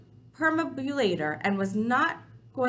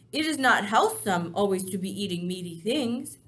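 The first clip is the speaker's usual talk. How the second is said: persuasive BFG; 5 dB louder than usual. Acted.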